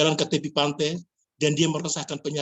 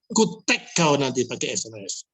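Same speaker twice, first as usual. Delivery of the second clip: put-on Batak accent; 3 semitones lower than usual. Preacher teasing the congregation in a mock Batak accent. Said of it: "Itu kata orang Batak".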